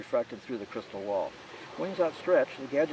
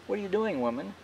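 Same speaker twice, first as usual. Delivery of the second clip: cried out; 9 semitones higher than usual. A narrator's reading. Charlie crying out as Blue Tara sends the gadgets away. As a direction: call out in alarm at her. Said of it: "Charlie cried out".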